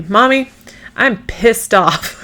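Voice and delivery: a hint of a cross five-year-old; imitating her daughter. Mom quoting her five-year-old daughter, pouty child voice. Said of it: "the other day she told me".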